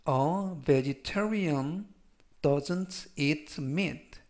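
very slow, split in two chunks with a pause after "vegetarian"; slow reading. Shown as a demonstration. Teacher reads in chunks for students, very slow. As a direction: break the sentence in half for learners. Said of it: "제가 역시 천천히 세 번씩 읽어드리고요".

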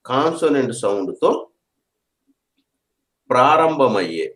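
slow and spaced, long pauses between phrases; slow dictation. Shown as a demonstration. Teacher spacing out the consonant rule for students, slow dictation. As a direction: lay out the rule piece by piece. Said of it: "అర్థమైంది కదా".

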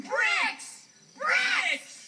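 high, excited exclamation; excited little pig; sudden realization. Acted. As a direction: cry out the dawning idea. Pigs catch on to bricks.

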